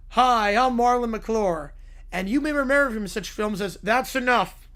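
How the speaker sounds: a slow, smooth infomercial host voice, lightly done; Troy McClure. Retold or imitated. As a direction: play the cheesy TV host, slowed right down. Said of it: "Troy McClure gets beat up".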